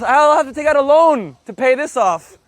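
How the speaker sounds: playful poor-me protest; mock outrage. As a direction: grumble in comic despair.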